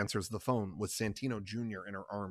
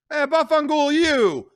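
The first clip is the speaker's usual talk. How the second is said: much higher, loud; curse thrown back; 10 dB louder than usual. Acted. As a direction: mimic him and hurl it back.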